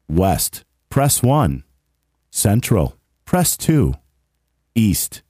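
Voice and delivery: lightly voiced recorded menu; phone menu voice. Shown as a demonstration. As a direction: list the options like a phone recording. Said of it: "then you get this".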